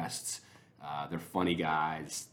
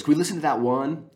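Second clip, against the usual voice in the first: put-on higher, louder little-girl voice asking eagerly; little daughter voice; 9 semitones higher, 10 dB louder than usual. Dad imitates his little daughter asking for the podcast, in a high, eager child voice. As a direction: pitch it up like an excited five-year-old. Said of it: "And she goes".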